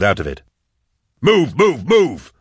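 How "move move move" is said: high, urgent yelled order; pitched-up, repeated command. A narrator's reading. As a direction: yell to drive them onward. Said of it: "yelled Nail".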